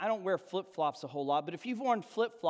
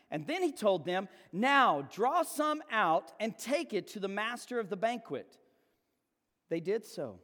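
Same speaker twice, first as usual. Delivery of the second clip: measured Bible reading to the congregation; scripture reading. Acted. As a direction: read the passage with gentle weight. Reads the Cana passage aloud.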